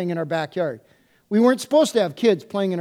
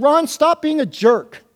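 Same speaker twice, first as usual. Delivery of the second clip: retold rebuke; 6 semitones higher, 4 dB louder, slower than usual.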